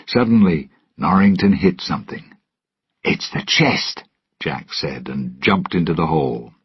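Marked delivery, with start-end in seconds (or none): 3.0-4.0 excited whisper. Acted. Finds the chest in sand.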